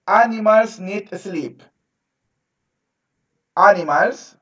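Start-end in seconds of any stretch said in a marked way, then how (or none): 0.1-1.6 spaced out for the class to repeat; slow model phrase. Shown as a demonstration. Teacher to pupils, modelling slowly for them to repeat. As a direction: lay it out slowly so they can echo it. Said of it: "repeat after me".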